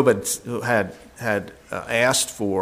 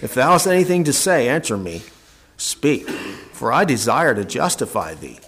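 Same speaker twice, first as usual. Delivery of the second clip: raised, ringing scripture voice with a loud opening; preaching Elihu's call; 3 dB louder than usual. Acted. Preacher voicing Elihu as he calls Job to listen, ringing and raised. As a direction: proclaim it like Elihu summoning Job.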